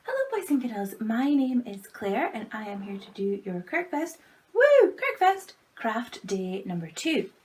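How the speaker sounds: put-on high, beaming hello to kids; overbright kids party host. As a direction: greet the children like a party host. Greets children brightly.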